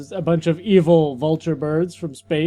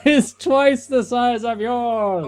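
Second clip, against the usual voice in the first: slow laughing voice; 5 semitones higher, slower than usual. Acted.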